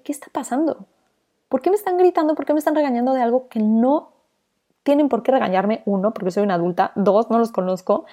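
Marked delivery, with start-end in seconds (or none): 0.0-5.8 indignant disbelief. Retold or imitated. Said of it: "Y en ese momento dije".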